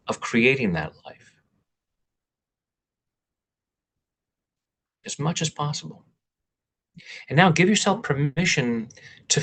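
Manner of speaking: measured guiding voice with long pauses; guided meditation. Real, not acted. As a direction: lead listeners through breathing and affirmations, pausing between phrases. Leads a guided intention meditation.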